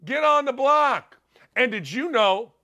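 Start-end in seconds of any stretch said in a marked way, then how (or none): 0.0-1.2 retold scream. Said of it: "I'm sitting there screaming".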